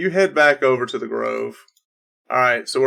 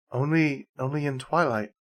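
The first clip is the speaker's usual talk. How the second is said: hushed, softer ghostly reply; quiet spirit voice; 7 dB quieter than usual. Acted. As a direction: breathe the answer like a spirit. Spirit voice answering.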